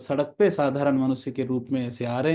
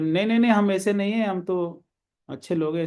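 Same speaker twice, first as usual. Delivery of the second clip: quick-fire higher-pitched protest at the start; feigned innocence; 4 semitones higher than usual. Retold or imitated. Robber hiding his plan from the rich merchant, feigned innocence. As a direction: protest innocence while hiding your real intent. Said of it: "तो बाहर से बोल रहे".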